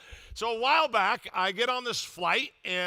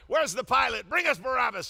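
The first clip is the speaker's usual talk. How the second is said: a touch of a yell, pitched higher; mock yelling; 4 semitones higher, 3 dB louder than usual. Stuck passenger heckling the crew, mild mock yell. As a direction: heckle the crew half in jest. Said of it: "just yelling out something".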